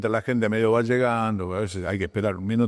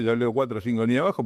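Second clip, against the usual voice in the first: skimming fast; much faster than usual. Shown as a demonstration. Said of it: "no sé cómo leemos el diario".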